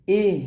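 ইহ ending on an audible puff of air; hams with breath release. Shown as a demonstration. Teacher repeating for students, ইহ with released breath. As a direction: let the breath out on the হ of ইহ. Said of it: "এরকম".

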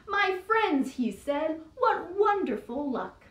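lightly hammed-up speechmaking mayor; a hint of a pompous mayor; mayor's speech. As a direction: address the crowd grandly. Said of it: "gave a speech, the way mayors do".

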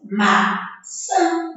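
"Maçã" counted out in two separate syllables. Shown as a demonstration. Teacher counting on fingers, "Maçã" split into syllables. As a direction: say "Maçã" in two beats, pausing between them. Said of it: "Ou então com os dedinhos".

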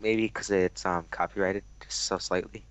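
voice changer. Real, not acted. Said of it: "maybe I wouldn't have used my voice changer".

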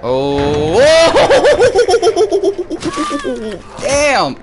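high, loud shrieking laugh; cracking up in disbelief. Real, not acted. Gamer shrieks with laughter at the gory kill.

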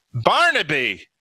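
high, loud cry of a name; sharp startled call; alarmed shout. A narrator's reading. Startled shout at his dog.

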